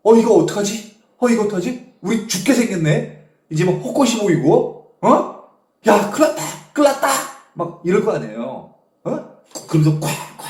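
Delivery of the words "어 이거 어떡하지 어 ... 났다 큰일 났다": loud, raised mock panic; agitated retold outcry, building at the end; imitated group panic. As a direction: act out a crew crying out in alarm. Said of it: "이구동성으로 다 그러지 않았겠어?".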